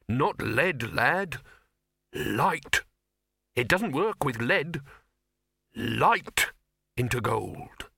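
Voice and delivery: a hint of an emphatic alchemist correcting someone; lightly voiced insistent alchemist. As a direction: correct the lad with measured, pointed words. Silverfish corrects Victor, acted dialogue.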